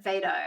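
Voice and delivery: Vado said VAY-doh, soft d; copying the viewer's way of saying Vado; viewer's version. Shown as a demonstration. Echoing a chatter's pronunciation Vado. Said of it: "I like how you pronounce it".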